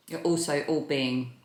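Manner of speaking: talking with a mouthful of food; mouth full. Real, not acted. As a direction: speak around a bite of food, mouth full. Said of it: "sorry, talking with my mouth full".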